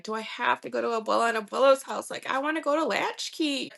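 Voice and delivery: lightly voiced child begging to go. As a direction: plead like a kid who wants out. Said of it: "I can remember Brianna begging".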